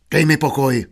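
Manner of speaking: mildly testy brush-off; snapped irritably. Acted. Shopkeeper brushing off his wife, mildly testy. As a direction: brush her off with some irritation. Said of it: "osopil se obchodník".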